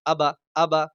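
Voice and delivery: both vowels of আবা kept short; no elongation. Shown as a demonstration. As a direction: say আবা briefly, without drawing out either syllable. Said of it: "টান হলো না, যেহেতু জাবার আছে". (আবা, কোনো টান ছাড়া)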